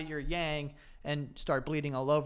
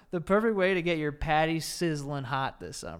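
reading the ad copy; 5 dB louder than usual. Retold or imitated. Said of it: "this is what they wrote".

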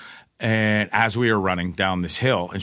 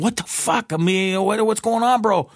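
mock alarmed reply; 10 semitones higher than usual. Mock reply to startled driver.

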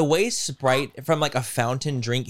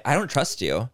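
ordinary talk

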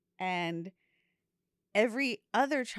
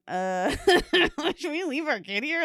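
laughing disbelief; 6 semitones higher, 6 dB louder than usual. Retold or imitated. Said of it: "and I'm going".

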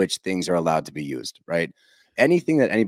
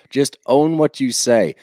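quoting Tamra's line; 4 semitones higher, 5 dB louder, slower than usual. Retold or imitated. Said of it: "She says that same sentence to Heather".

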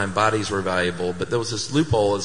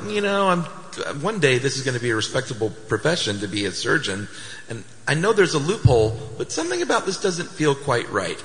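higher, uneasy student voice; a squeamish student doubting the loophole; 5 semitones higher than usual. Retold or imitated. Students voiced, uneasy and higher. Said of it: "They were like".

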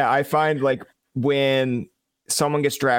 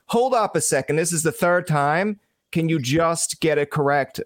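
mildly exasperated correction, higher at the start; firm interjection; 3 semitones higher than usual. Acted. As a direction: cut in to insist on being corrected. Imagined firm objection to interviewer.

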